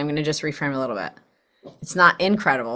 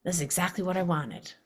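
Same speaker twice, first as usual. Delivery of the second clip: soft, breathy whisper of gratitude; grateful whisper; 8 dB quieter than usual. Retold or imitated. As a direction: breathe it out thankfully under your breath. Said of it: "take a breath and be like".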